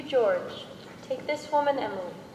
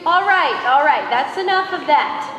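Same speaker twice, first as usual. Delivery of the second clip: stern shushing; 5 dB louder than usual. Acted. Stops the wedding teasing.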